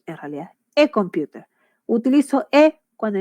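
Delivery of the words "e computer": "E computer" with the article said "eh"; "E" pronounced eh before "computer"; article read as E. Shown as a demonstration. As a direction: say the article in "E computer" as a clear E vowel. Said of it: "Se lee como E".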